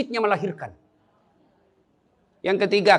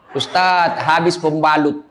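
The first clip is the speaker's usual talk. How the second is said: laughing retold message; 9 semitones lower, slower than usual.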